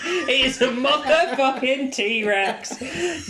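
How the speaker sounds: high, laughing awestruck cry; awestruck shout. Retold or imitated. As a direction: yell it in delighted awe. Awed reaction to the T-Rex.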